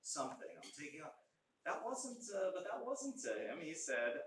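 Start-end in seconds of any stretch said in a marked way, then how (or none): 0.0-1.1 sarcastic imitation of a trendy pledge; mocking catchphrase. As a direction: parody the popular phrase "I'm taking on", stretched. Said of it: "That's a real popular expression".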